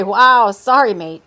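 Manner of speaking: loud, sudden wow and apology; startled apology. A narrator's reading. Dakar nearly collides with Kay, startled apology.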